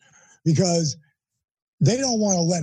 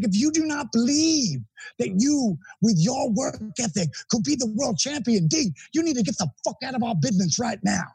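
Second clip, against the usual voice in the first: heated lecture; 4 semitones higher than usual. Retold or imitated. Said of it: "he was so hot".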